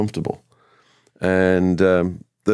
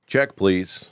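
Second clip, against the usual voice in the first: American accent. Shown as a demonstration. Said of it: "That was good".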